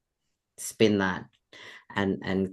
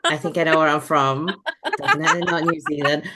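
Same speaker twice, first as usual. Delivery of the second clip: mock indignant denial; 6 semitones higher, 5 dB louder than usual. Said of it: "And I was like".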